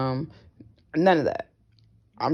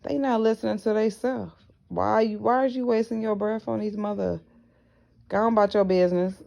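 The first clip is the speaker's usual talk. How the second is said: spirit's voice; 5 semitones higher than usual. Retold or imitated. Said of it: "told me".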